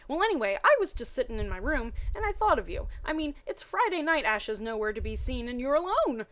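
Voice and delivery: reading the Pokemon fanfic dialogue with energy; voiced characters. Reading Brock and Misty's phone call in lively voices.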